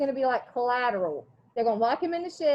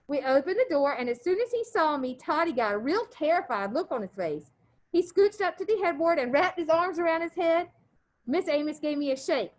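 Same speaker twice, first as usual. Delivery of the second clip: steady read-aloud voice for the class; story read aloud; 3 semitones higher than usual. A narrator's reading. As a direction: read the chapter to the students. Teacher reads novel aloud.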